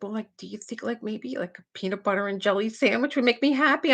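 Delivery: mock tearful little girl; imitated crying. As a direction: timidly wheedle like a weepy child. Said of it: "she's just crying".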